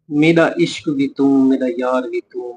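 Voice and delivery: slow, measured poetry recitation; recited poem. Shown as a demonstration. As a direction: recite the kafi line by line for dictation. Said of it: "next शेर की तरफ चलते हैं". (धीमी शायराना अदायगी)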